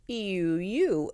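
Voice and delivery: "E U U" said nasally, nose held shut; holding your nose at a bad smell; pinching nose. Shown as a demonstration. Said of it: "I hold my nose like I smell a bad smell".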